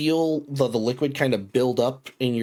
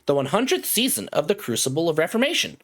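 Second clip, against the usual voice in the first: high-pitched, singsong automated voice; synthetic, measured announcement pitched well up; robotic announcer; 10 semitones higher than usual. Acted. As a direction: recite it like a cheery corporate computer. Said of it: "that same robotic voice".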